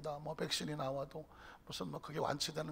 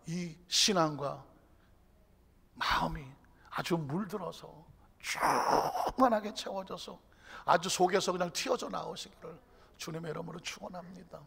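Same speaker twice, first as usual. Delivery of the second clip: usual speaking voice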